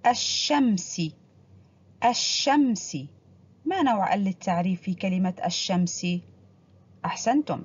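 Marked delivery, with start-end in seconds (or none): 0.1-1.0 الشمس said with the lam silent and the shin doubled, aš-šams; careful model pronunciation of الشمس; الشمس slow, with the sun letter doubled; demonstrating the word. Shown as a demonstration. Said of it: "سنقرأ ونركز على نطق الحرف الملون". 2.0-3.0 الشمس said with the lam silent and the shin doubled, aš-šams; careful model pronunciation of الشمس; الشمس slow, with the sun letter doubled; demonstrating the word. Shown as a demonstration. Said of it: "سنقرأ ونركز على نطق الحرف الملون".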